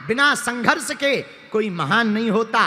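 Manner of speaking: loud, emphatic sermon delivery; forceful preaching. Real, not acted. Preacher urging the crowd not to fear struggle, forceful. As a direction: drive each point home with force.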